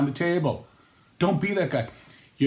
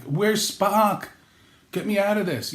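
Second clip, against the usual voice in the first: higher-pitched comic cry for rescue; mock desperate plea; 7 semitones higher, slower than usual. Trapped guest in relative's death grip, mock desperate. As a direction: plead to be freed, hammed-up.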